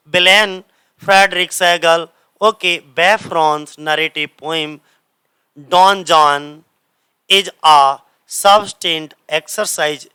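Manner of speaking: unhurried word-by-word reading of the English passage; slow dictation reading. Shown as a demonstration. Teacher to exam students, slow read-aloud of the passage. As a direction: read it out slowly as if students copy it.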